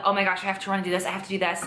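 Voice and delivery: rattled off quickly, lightly frantic; mock rushed panic. Vlogger voicing the panic she never felt cooking, mock rushed. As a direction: hurry through it in mock overwhelm.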